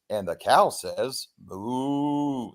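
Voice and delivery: lightly imitated toy announcer, slow; slow toy recital ending in a drawn-out moo; talking pull-string toy. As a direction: play a pull-string animal-sounds toy. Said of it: "remember this toy. You pull a string".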